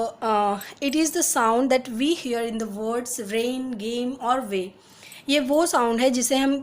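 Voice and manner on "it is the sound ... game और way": slow, deliberate English read; slow teaching read. Shown as a demonstration. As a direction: spell out the rule slowly. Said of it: "ठीक है, तो".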